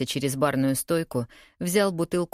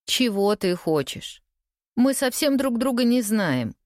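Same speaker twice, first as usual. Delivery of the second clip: brisk business tone at a higher pitch; businesslike; 7 semitones higher than usual. A narrator's reading. Woman questioning a near stranger about what he wants, businesslike. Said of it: "Мой тон звучал деловито".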